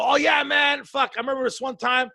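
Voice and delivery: mock chatty tourist. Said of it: "I don't go".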